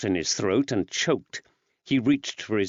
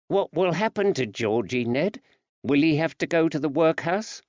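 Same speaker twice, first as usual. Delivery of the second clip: woman's voice; 6 semitones higher than usual. Acted. Betsy voicing fear.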